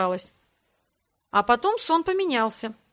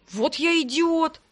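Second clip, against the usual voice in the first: high, drawn-out lament; dismayed wail at oneself; rueful self-reproach; 6 semitones higher, slower than usual. A narrator's reading. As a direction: slowly bemoan your own stupidity. Rueful self-reproach in acted quarrel.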